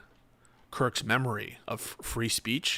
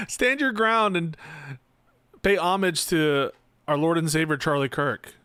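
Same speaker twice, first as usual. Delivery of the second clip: mocking high voice; 5 semitones higher, 4 dB louder than usual. Mock continues, laughing.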